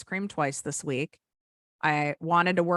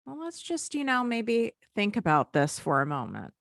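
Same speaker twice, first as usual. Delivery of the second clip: higher, much softer start, coaxing; soft gentle voice; 4 semitones higher than usual. Retold or imitated. Calm inner voice suggesting a pause, softer and higher. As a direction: ease in gently like a kind helper. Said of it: "the other voice is like".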